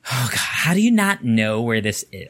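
hammed-up exasperated sigh, then the question; exaggerated condescending boss. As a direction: overplay how dumb she found him. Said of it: "I don't think she sounded like that".

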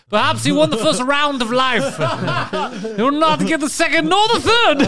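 laughing through a lofty villain speech; theatrical vow through laughter; mock grand vow. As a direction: declaim it like a movie villain, giggling.

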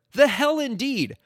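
slow, high, drawn out, like a verdict; mock-solemn agreement. Host echoing a listener's email, slow and mock-solemn. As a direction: savour each word of the verdict.

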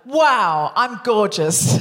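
drawn-out, heartfelt self-admiration; over-invested. Shown as a demonstration. Guest copying coach's line, putting a lot into it. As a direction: put a lot into it, slowly. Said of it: "You put a lot".

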